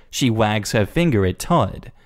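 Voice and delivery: ordinary delivery, nothing marked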